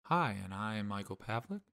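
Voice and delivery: soft whispered intro; whispering. Acted. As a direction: whisper your name hushed. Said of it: "Why are you whispering?".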